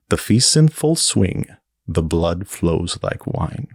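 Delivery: slow, ominous storybook recitation; spooky poem reading. Shown as a demonstration. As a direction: read it like a creepy nursery rhyme. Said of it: "Should I do it in regular voice or spooky voice?".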